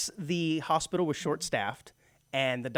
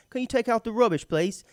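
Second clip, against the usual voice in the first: lightly higher mock English request; British accent; 7 semitones higher than usual. Host replaying the roommate's trash request, mock British accent. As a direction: make the chore sound jovial in a British accent. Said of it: "less intense sounding way".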